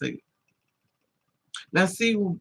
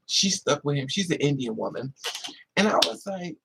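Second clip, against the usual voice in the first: ordinary talk, nothing marked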